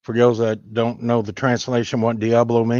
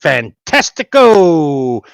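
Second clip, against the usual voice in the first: mock Spanish flourish; 2 semitones lower, 5 dB louder, slower than usual. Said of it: "as the people across the southern border would say".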